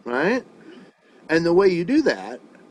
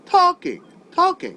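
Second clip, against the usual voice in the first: "Talking" with the first syllable high and loud, "ing" dropping away; stress on TAL; 12 semitones higher, 3 dB louder, slower than usual. Shown as a demonstration. Teacher showing a student the stressed syllable, "Talking" high then falling. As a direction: lift "Talking" sharply on "talk", let "ing" fall. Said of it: "you can hear how talk is higher than ing".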